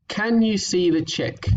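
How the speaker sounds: blended read. Shown as a demonstration. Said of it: "so this sentence here".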